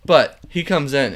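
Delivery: ordinary talk, nothing marked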